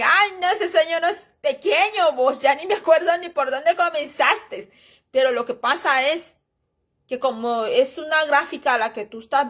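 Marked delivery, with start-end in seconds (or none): 0.0-4.7 higher, lightly voiced friend teasing; mock-amazed ay, no from a friend; imitating a friend's exclamation. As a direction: friend marvelling at a long dream, half-acted. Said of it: "Y me dicen".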